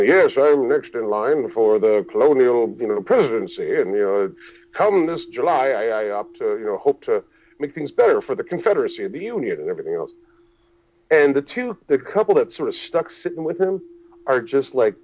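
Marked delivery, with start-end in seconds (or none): 0.0-10.1 colonial show performer. Retold or imitated. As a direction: imitate a self-important reenactor on the campaign trail. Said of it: "as if he's part of, like, the whole, like, you know, dog and pony show".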